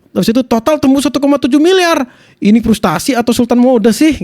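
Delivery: lifted, punchy narration easing into a question; voice-over demo. Shown as a demonstration. Streamer closing the example script for viewers, voice-over demo. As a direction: build the total, then toss out the question. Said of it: "Contoh voice over gini nih".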